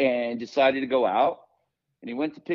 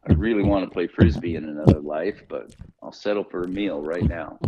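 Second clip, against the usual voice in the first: alligator voice; 7 semitones lower, 4 dB louder than usual. Pretend. Alligator voice continues.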